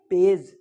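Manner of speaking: पेज said firmly with a j sound. Shown as a demonstration. Teacher drilling the class: firm soft j. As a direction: repeat पेज with a soft j, emphatic. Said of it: "क्या बोलेंगे".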